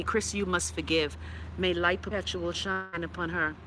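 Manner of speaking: soft, low churchy murmur; pious blessing. Pretend. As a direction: drop into a hushed, reverent blessing. Pious blessing recalled from her priest.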